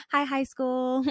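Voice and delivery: bright, high, sing-song greeting; cheerful hello. Retold or imitated. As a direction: wave hello to an old friend. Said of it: "swing by everything and say hello".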